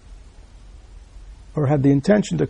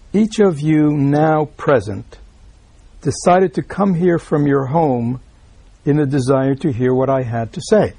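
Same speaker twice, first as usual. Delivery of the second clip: solemn recitation. Acted. Reads Bankei's words to the audience.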